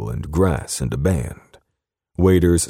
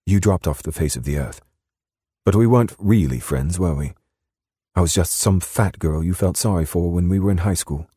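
higher British woman's voice; British accent, pitched up; 5 semitones higher than usual. A narrator's reading. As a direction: reproach him in a British accent. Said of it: "in her soft British accent".

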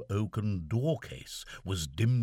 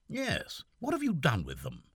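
put-on raised, puzzled young officer; lightly voiced young gentleman puzzled; Seaforth's voice; 7 semitones higher than usual. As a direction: fret aloud as the lieutenant.

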